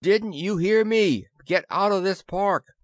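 high, loud shout to keep off; yelled warning. A narrator's reading. Narrator to the landing crew, loud yell. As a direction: bellow across the lawn. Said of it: "I yelled".

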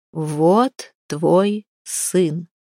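slow, solemn announcement. Acted. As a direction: hand it over gravely and slowly. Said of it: "сказала Сванхейт".

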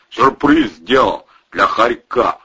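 slow, secretive, conspiratorial. A narrator's reading. Volyna tells his pal about the trap, slow conspiratorial tone. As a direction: let him in on a secret plot. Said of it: "тоном заговорщика".

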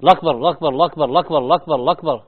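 الله أكبر run together as "الأكبر"; mock slurred الأكبر; slurred takbir. Teacher imitating the slurred takbir. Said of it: "فهو يقول".

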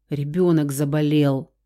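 ordinary delivery

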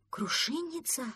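a small duckling repeats a strange word, puzzled; puzzled question. Acted. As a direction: echo «Крушинница» back as a baffled question.

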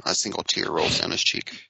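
breathy mock-dramatic whisper; whispered narration. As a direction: whisper it like a trailer voice.

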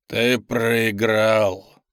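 very slow, low demon voice; demonic whisper. Acted. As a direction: drag it out, low and menacing. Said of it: "послышался голос демона". (демонический шёпот)

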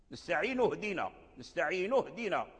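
نستعين اهدنا run together as nasta'inu-hdina; hamza dropped in linking. Shown as a demonstration. Teacher showing linked reading, نستعين اهدنا without hamza. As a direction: glide from the nun straight into the h of اهدنا. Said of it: "فإذا أدرجنا حذفناها".

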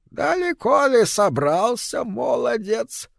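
high toothless mumble, like gumming soft food. A narrator's reading. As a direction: mumble it through gums, no teeth. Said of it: "прошамкала она".

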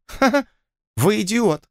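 high nervous mock laugh, then scorn; condescending snort. A narrator's reading. Lord laughs nervously at Blood, high condescending snort. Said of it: "снисходительно фыркнул он".

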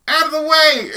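loud high shout; yelling out. Retold or imitated. Retelling a guy yelling at the car ahead. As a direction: bellow it out the window.

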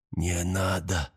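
soft, slow, weak murmur; whispered plea. A narrator's reading. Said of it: "шепнул он".

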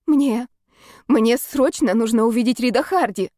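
out of breath, pushing the words out. Acted. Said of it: "задыхаясь от нехватки воздуха, прохрипела я".

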